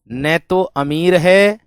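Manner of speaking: very slow, drawn-out reading; slow dictation. Shown as a demonstration. Teacher dictates the clause very slowly. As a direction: draw each word out slowly. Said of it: "ये जोड़ दो".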